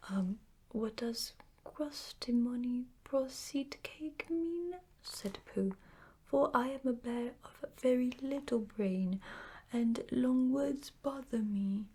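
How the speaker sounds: a hint of a worried, polite little bear; lightly voiced Pooh bear. Pooh puzzled by long words.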